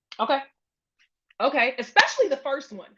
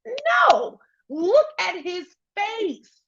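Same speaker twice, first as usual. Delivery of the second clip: mock angry refusal; 7 semitones higher, much slower than usual. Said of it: "And he's like".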